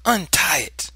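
loud, high command; sharp order. A narrator's reading. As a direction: order the child sternly. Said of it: "she ordered".

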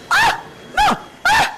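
high shrieks of terror; frightened screams. Real, not acted. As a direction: scream at each scare. Mother terrified in VR game. (urla acute di paura)

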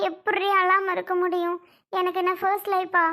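mildly tearful lament; understated weepy protest. Acted. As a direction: complain through tears, fairly steadily. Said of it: "ஏன்டி அழற?".

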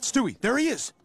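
excited shout. Acted. Spotting the lookout.

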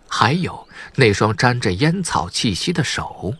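ordinary delivery, nothing marked

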